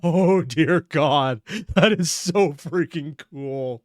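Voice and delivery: drawn-out amazed exclamation; awed. Real, not acted. Awed by boss phase two.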